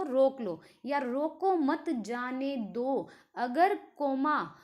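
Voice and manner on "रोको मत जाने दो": रोको मत joined, then very slow जाने दो; pause after मत. Shown as a demonstration. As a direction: draw out the words, break before जाने दो. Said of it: "प्लेस अगर चेंज होता है".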